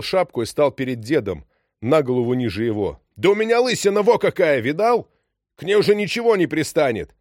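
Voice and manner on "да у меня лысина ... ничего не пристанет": shouting. A narrator's reading. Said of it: "Что ж ты кричишь?".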